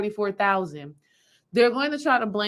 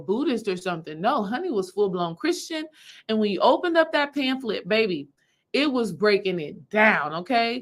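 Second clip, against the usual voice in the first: plain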